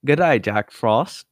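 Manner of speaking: a crude Australian bunny taunting Jack Frost; mock Australian accent. Friend mocks Easter Bunny to co-host in Australian accent. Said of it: "losing our entire Australian audience".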